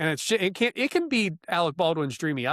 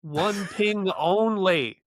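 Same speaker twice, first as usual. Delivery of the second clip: Sean Connery quote; 4 semitones higher, 3 dB louder, much slower than usual. Retold or imitated. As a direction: drawl it like the sub captain. Quoting Sean Connery line.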